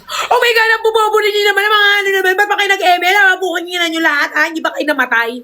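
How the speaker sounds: hammed-up rage at bad teammates; mock raging gamer. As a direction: yell it like a tilted player. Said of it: "baka sabi ko".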